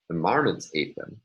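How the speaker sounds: marmots stressed, the rest falling away; single out marmots by stressing it; contrastive stress on marmots. Shown as a demonstration. Lecturer contrasts marmots with rabbits and raccoons, stress on marmots. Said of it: "not the rabbits or the raccoons".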